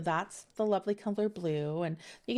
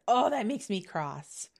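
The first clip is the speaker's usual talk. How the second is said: grandmother's voice; 3 semitones higher, 5 dB louder, slower than usual. Retold or imitated. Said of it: "something that my nanny would have said".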